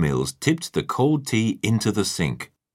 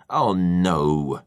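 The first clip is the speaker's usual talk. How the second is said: mild groan; 3 dB louder than usual. A narrator's reading. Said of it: "Tiger groaned".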